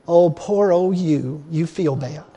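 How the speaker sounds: slow, drawn-out mock sympathy; mock weenie whiner. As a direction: coddle him mockingly, slowing right down. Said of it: "passive little weenie whiner".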